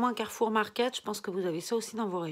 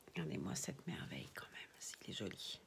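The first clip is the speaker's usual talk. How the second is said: whisper; 10 semitones lower, 15 dB quieter than usual. Real, not acted. Whispering beside a sleeping doll.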